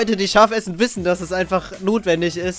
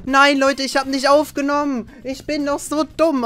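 dismayed; 9 semitones higher, 4 dB louder than usual. Real, not acted. Realizes recording failed.

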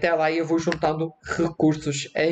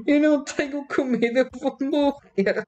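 hammed-up despair; 8 semitones higher than usual. No food, fears dying.

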